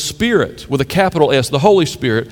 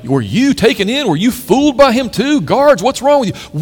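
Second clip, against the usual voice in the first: higher, indignant Pharisee voice scolding the guards; 7 semitones higher, 3 dB louder than usual. Retold or imitated. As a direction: play the outraged Pharisees, pitched up.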